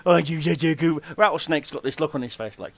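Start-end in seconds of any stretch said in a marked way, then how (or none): 0.0-1.0 put-on cooing baby talk again; puppy talk. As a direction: coo at the snake like a pet. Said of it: "talking to a rattlesnake like a puppy".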